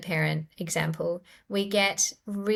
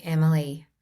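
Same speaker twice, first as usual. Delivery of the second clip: gentle self-talk; 3 semitones lower than usual. Shown as a demonstration. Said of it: "place my hand on my heart and say".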